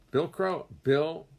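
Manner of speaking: high and loud, hail him happily; excited greeting. Real, not acted. Greeting a viewer who just joined, bright and excited. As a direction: call out a friend's name with delight.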